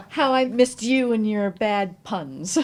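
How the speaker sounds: laughing through the line, slowly. Acted. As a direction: groan fondly at the pun while laughing. Laughing at friend's pun.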